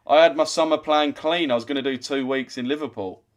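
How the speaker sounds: high, loud, sarcastic "oh no"; mock dismay. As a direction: play devastated over cancelled holiday plans. Mock dismay at being threatened away.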